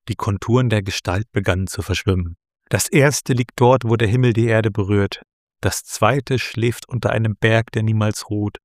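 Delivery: measured storytelling with lightly voiced dialogue; story narration. A narrator's reading. Author reads Luna's meeting at the tree, story narration. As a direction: read the tale aloud, lifting the characters' questions.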